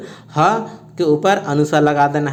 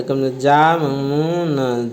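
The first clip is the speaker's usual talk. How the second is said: slow syllable by syllable; much slower than usual. Shown as a demonstration. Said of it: "अब देखिए जामुन लिखा हुआ है".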